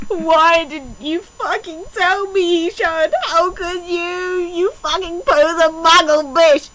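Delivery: slow, hammed-up sobbing reproach; mock crying. Reading the heroine scolding Sean, in hammed-up fake sobs. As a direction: wail it with fake tears.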